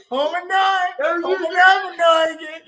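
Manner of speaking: put-on high, slow kid's sing-song; imitating a kid. Recalling a boy from a video, high slow kid voice. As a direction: drag it out like a silly kid. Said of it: "that boy was like".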